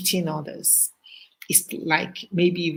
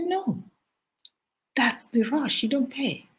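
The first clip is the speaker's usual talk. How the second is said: higher, offhand classmates' voice; casual classmates; 7 semitones higher than usual. Retold or imitated. Classmates explaining to the speaker, higher and offhand. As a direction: toss it off like it's obvious. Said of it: "They said".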